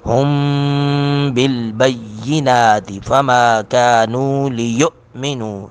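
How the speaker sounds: slow drawn-out melodic tilawat; Quran recitation. Acted. Teacher reciting the verse aloud, melodic. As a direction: chant it long and melodic.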